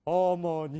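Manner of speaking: 어머니 with all syllables even, no stress; flat, unstressed 어머니; even Korean way. Shown as a demonstration. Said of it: "한국 사람은 뭐예요?". (한국식 평평한 어머니)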